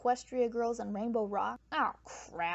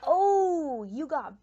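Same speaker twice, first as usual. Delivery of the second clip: laughing; 6 dB louder, slower than usual. Real, not acted. Laughing at Maud's burn.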